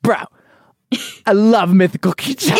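lightly put-on British accent; a hint of a British bro. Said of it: "let me do the British accent".

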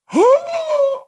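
high, hammed-up movie gasp; dramatic gasp. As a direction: gasp like a shocked spy-film agent. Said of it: "real dramatic".

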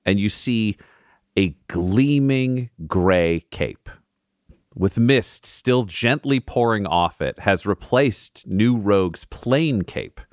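slow, hushed scene setting; story narration. A narrator's reading. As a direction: paint the scene slowly. DM narrates magical reveal.

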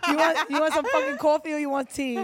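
laughing mock demand. Mocking the coffee-or-tea question.

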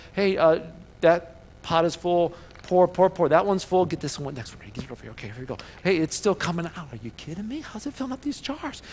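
the widow pouring oil, growing amazed. Retold or imitated.

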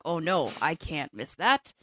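a lightly put-on, slow Russian accent; mock Russian accent, deliberately bad; terrible Russian accent. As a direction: do a bad, half-hearted Russian accent, slowly. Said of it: "That was a terrible Russian accent".

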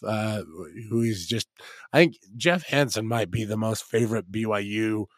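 hoarse, worn-out voice; rough throat from the cold; smoker's rasp. Real, not acted. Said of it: "I sound like I've been smoking heaters".

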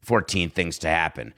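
low, confidential caller voice; hushed and deep, mock-important; Aaron Rodgers on the phone. Aaron giving demands to Woody, low and confidential. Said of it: "I bet he talks like this".

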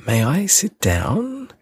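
high, timid little request. A narrator's reading. Little prince shyly asks the king to sit, timid. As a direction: ask permission shyly. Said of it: "a timid inquiry".

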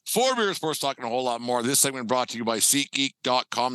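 steady sponsor read, promo code laid out. Acted. Podcast host reads sponsor ad to listeners, ad read.

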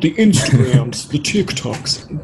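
slow, slightly hammed old-timer voice; lightly voiced ninety-year-old; mock old man. Shown as a demonstration. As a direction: say it like a grandpa puzzled by apps. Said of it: "like, a ninety-year-old".

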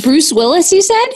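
checking you heard that right; surprised. Real, not acted. To the band, surprised they played for Bruce Willis.

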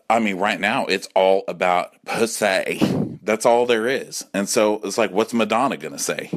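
normal talking voice

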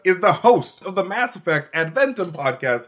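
grand game-show introduction; game-show announcer. Acted. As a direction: boom out the guest's name like a host. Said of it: "That was perfection".

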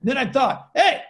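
loud, excited imitation of a Spanish accent; thick Spanish accent. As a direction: build to the punchline in a put-on Spanish accent. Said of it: "with a really thick, uh, Spanish accent".

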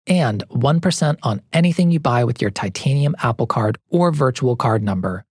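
upbeat commercial voice; ad read. Acted. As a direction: sell it like a radio ad.

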